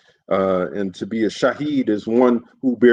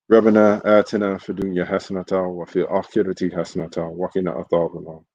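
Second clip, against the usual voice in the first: rapid prayer recitation; 3 semitones lower, much faster than usual. Real, not acted. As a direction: murmur a memorised supplication at speed. Closing Arabic supplication.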